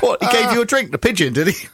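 a hint of the disbelieving wife; mock sarcastic wife. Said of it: "She went".

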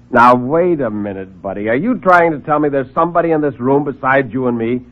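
sarcastic fast-talking hack; brash reporter. Acted.

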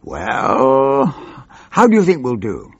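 a lightly voiced snarl, high on Plimpton; snarling Chief Whip. Chief Whip pressing Plimpton, a lightly voiced snarl. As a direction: needle him with a mock snarl. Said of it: "He scowled and snarled".

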